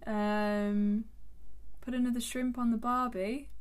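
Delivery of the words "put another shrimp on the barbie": lightly attempted Australian accent. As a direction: have a tentative go at an Aussie accent. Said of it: "What else can you do in Australian accent?".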